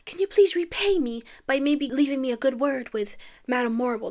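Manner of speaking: a hint of sweet, prissy Glinda; lightly played, sugary request; lightly voiced Glinda. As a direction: ask a favor sweetly. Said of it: "tells her".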